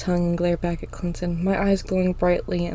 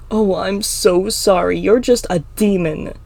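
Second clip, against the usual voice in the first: mocking; 6 dB louder than usual. The speaker throws Emma's apology back at her, mocking. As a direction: feign sympathy, then sneer.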